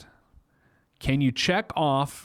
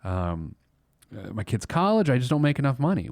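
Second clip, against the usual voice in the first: imitating a worried listener; 2 semitones higher than usual. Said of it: "I know what you're thinking".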